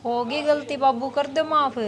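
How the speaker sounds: soft, subdued plea for forgiveness; apologetic. Acted. Daughter-in-law apologises to father-in-law. (धीमे से माफ़ी माँगते हुए)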